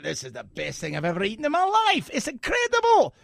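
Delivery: building to a high, thrilled finish; rave, leaping up high on the last word; hammed-up rave. Host voicing a delighted customer, hammed-up rave. Acts customer raving about the meat.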